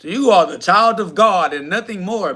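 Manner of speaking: imitating a dismissive put-down; condescending mockery; mock condescension. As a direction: mimic someone talking down, in an altered voice. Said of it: "You said that like that was".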